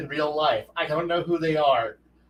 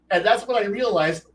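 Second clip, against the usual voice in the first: ordinary delivery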